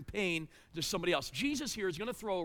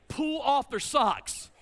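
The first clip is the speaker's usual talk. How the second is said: slow chant, pitched higher; mock arena yell; 4 semitones higher, 4 dB louder, slower than usual. Dad retelling what his son thought the arena yelled, chanting. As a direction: imitate a crowd chant, stretching each word. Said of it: "entire arena was yelling".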